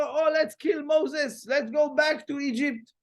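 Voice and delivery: a frightened mob yelling, played up; mock mob shout. Crowd at the sea shouting to go back, mock yell. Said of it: "commotion and like a mess".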